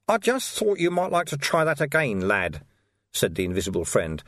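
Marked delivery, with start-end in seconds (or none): 0.1-2.6 higher, amused stranger; sly, amused older man; dry knowing voice. A narrator's reading. Invisible friend speaks.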